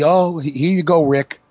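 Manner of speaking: mock Cena. Cohost imitating Cena giving Flair the belt, mildly voiced. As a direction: toss it off casually as Cena would.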